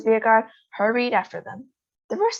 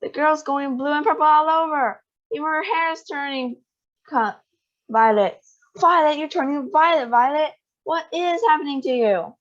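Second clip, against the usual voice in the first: high, raised frantic mother; panicked mother; 7 semitones higher than usual. A narrator's reading. Mother frets over daughter turning violet, high and frantic. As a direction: fret in rising panic.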